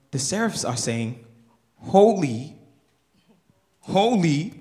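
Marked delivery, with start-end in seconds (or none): 1.8-4.5 seraphs' call. Acted. Voicing the seraphs.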